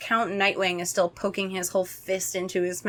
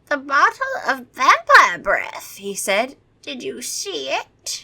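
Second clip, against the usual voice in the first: vampire voice; 6 semitones higher than usual. Acted. Vampire questions kids.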